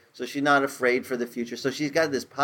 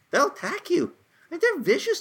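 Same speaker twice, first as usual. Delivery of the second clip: excited emphasis. Real, not acted. Warning about protective mother hens.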